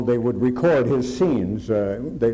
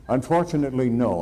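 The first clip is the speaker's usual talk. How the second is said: laughing. Real, not acted. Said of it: "Do you remember the date?".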